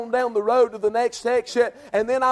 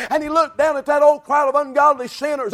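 preaching shout; 5 semitones higher, 4 dB louder than usual. Real, not acted.

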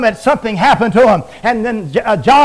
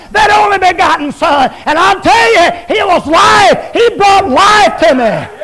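fiery preaching; 3 semitones higher than usual. Acted. Preacher shouting triumph to the congregation, full force. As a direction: preach it to the rafters.

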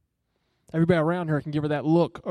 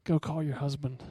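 softer, gentle command; grieving, broken; 6 dB quieter than usual. Retold or imitated. Jesus gently speaks to the woman at the well, soft and grieving. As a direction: say it tenderly, heart breaking for her. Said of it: "He is broken for her right then".

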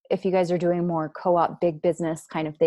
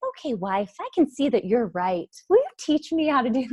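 meekly giving-in husband; 5 semitones higher than usual. Acted. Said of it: "he's like".

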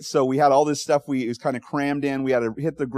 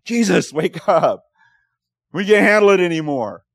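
desperate plea; 4 semitones higher, 6 dB louder than usual. Retold or imitated. Disciples waking Jesus in storm.

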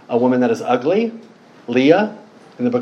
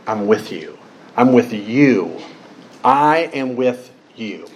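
lower, slowing, deliberate reassurance; firm reassurance; 4 semitones lower, slower than usual. Acted. God over and over telling fearful Gideon, firm reassurance. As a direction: reassure word by word, settling lower.

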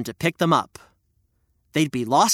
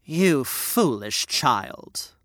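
slow, scornful stepmother; wicked stepmother; 4 semitones lower, much slower than usual. Acted. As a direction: drag out the scolding. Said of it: "said the stepmother".

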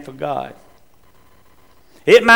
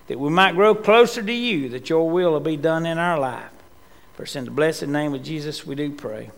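earnest spoken prayer; faster than usual. Real, not acted. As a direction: pray humbly to the Lord. Opening prayer.

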